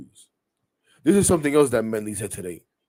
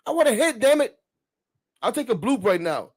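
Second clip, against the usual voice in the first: high, loud frustrated yell at teammates; 11 semitones higher, 5 dB louder than usual. Retold or imitated. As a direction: shout that you only want a hit. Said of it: "And I told them".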